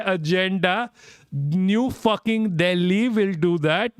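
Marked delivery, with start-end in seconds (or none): 1.3-3.9 sarcastic mockery. Real, not acted. Mocking the article's claim.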